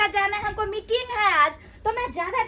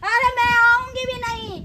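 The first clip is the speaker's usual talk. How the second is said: loud, defiant refusal; angry vow; 2 semitones higher, 5 dB louder than usual. Acted. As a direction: fling back a loud refusal. Storms out of quarrel. (तमसायल जोरगर इनकार)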